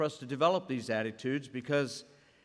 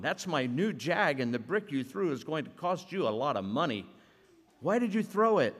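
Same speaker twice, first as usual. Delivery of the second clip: building anger; 3 semitones higher than usual. Acted. Josh confronting the boy about his new Jag, rising anger. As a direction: let the anger climb to the question. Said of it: "Building up a head of steam".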